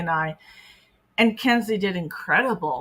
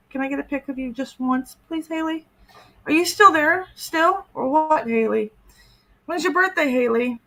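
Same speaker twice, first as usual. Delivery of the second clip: mock whiny predator; 7 semitones higher, 3 dB louder than usual. Mocking the predator's pleading texts.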